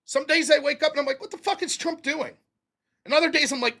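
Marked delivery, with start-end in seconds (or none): 1.2-2.4 muttered disbelief. Retold or imitated. Voicing his own morning thoughts.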